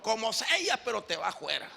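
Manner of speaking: "fuera" still said as "juera"; defiant mispronunciation. Acted. Exorcist answering his critic, defiantly saying "fuera" as "juera". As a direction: brush off the correction, h-like J starting "fuera". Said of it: "le contesta el otro".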